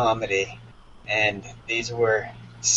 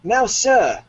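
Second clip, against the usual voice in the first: much higher, louder command; captain's cry; 12 semitones higher, 6 dB louder than usual. Acted. Captain striding into the great cabin, commanding cry. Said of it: "cried the captain".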